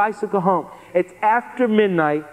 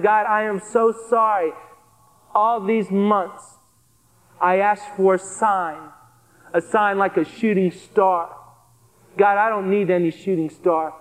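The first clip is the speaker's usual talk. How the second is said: sincere prayer. Retold or imitated. Prayer to God retold.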